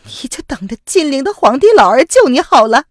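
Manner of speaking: high, loud furious woman's voice; bitter hatred. Acted. Wife scorning her treacherous husband, high and furious. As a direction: spit the words at him. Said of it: "宋飞宇恨恨地说".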